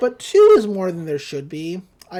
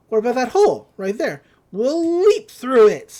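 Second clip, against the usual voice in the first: eager Mabel; 4 semitones higher, 6 dB louder than usual. Retold or imitated. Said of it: "Mabel's like".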